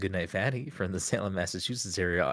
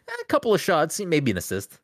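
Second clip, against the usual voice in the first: mock French accent; 7 semitones higher, 3 dB louder than usual. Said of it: "mod in a special voice line that says".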